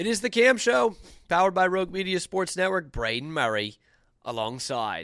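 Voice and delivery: exaggerated British radio announcer voice. Opening the show with an intro: a little too british accent. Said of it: "That got a little too British".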